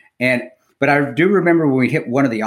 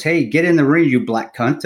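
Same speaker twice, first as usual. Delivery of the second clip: half-hearted mock yell, pitched up at the start; retold yell; 4 semitones higher than usual. Fighter yelling at his buddy from the ring, mild mock yell. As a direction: call out lightly, imitating a movie boxer. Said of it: "the pikey guy yells at his buddy".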